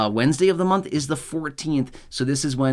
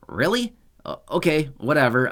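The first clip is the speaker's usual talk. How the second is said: sarcastic disbelief; 2 semitones higher than usual. Real, not acted. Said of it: "Obviously, I'm being sarcastic".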